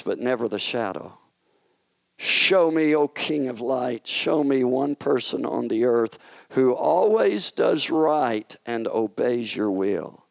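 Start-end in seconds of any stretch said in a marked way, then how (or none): 2.2-10.3 a hint of a sneering fallen angel daring the king; Satan's challenge. Satan daring God to name one righteous person, lightly voiced.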